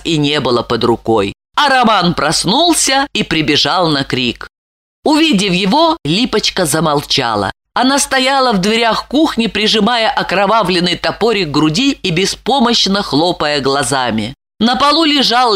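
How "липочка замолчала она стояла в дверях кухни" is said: ordinary delivery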